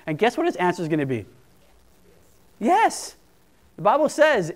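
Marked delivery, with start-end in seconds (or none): 2.6-3.1 emphatic yes. Acted. God's emphatic answer.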